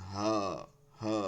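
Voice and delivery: "হা" breathed from deep in the throat; deep, like a lion. Shown as a demonstration. Teacher showing the throat letter, deep like a lion. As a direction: let "হা" out grave, unforced. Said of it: "গম্ভীর, সিংহের মতন".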